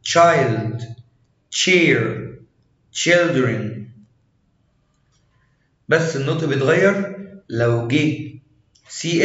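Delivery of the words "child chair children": put-on "child", "chair", "children" starting on a clear ch; ch sound. Shown as a demonstration. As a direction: model each opening ch in "child", "chair", "children". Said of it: "مرة تانية".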